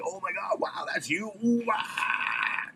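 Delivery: hushed gasp rising into high cooing; mock awe. Young Hare Krishna meeting the boy from the founder's book, mock awed. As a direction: gush like a starstruck fan, breathless then high. Awed devotee meets famous kid.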